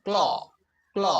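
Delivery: ক্ল as one joined k-l sound; hard k running straight into l in ক্ল; blended "kl" sound. Shown as a demonstration. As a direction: model ক্ল twice with a pause between. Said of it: "ক্ল sound উৎপন্ন করতে হবে".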